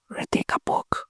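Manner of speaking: breathy secret whisper, almost no voice. Real, not acted. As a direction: let the listener barely catch it. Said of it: "You didn't hear me, right?".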